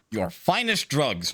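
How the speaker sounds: slow, deadpan order. Acted. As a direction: say it slow and dead serious. Kiryu orders from doctor.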